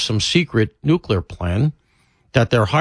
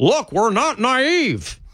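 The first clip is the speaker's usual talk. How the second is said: mock peevish, petulant bark, very high and slow; 11 semitones higher than usual. Retelling how a speaker answered a skeptical crowd: petulant bark, imitating John Kerry. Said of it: "That's how he did it. That, that sort of petulantly".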